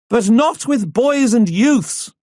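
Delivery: high, slow protest from a woman in the crowd; lady calling out. A narrator's reading. Woman in crowd objects to training boys, high slow call. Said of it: "a lady calls out".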